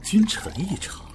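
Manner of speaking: high, slow, half-breathed scoff; bitter disbelief. Acted. Deposed emperor mocks his former minister with high, slow disbelief. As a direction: drag it out in bitter, mocking disbelief.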